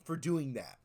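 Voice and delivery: slow, drawn-out hype voice, lightly voiced; mock praise. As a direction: slowly gush praise like a fan.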